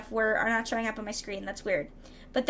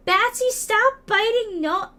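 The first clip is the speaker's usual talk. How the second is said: high, loud, slow telling-off; mock scolding; 9 semitones higher, 5 dB louder, slower than usual. Streamer telling a viewer off for biting, in mock scolding. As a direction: scold like an exasperated minder, drawn out.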